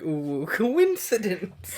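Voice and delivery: COINCIDENCE said slowly, as misspelled; spelled-out mispronunciation. Shown as a demonstration. Reader mocks the fan fiction's spelling, slow mispronounced COINCIDENCE. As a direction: draw out "coincidence" as if sounding out the misspelling. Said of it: "That's spelled like".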